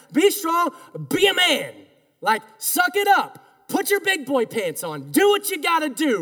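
lightly voiced pushy dad; dad's tough talk. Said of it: "something my dad would say to me".

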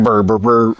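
low humming burr imitating a riff; mock low burr. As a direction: hum it low like a guitar. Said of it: "Sounded like you're like".

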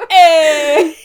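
laughing shout that clips the mic; clipping distorted mic. Real, not acted. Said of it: "Oh, fuck, I clipped the mic".

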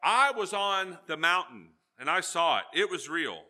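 insistent Peter. Retold or imitated. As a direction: plant your feet and insist. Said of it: "Peter says".

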